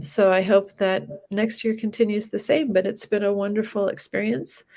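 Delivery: blocked nose, slightly nasal; talking through a stuffy nose. Real, not acted. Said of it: "Sorry, I'm a little stuffy".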